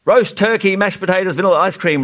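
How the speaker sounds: high, eager listing; reciting. A narrator's reading. Humbug bouncing up and down at his turn, reciting. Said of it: "recited the humbug".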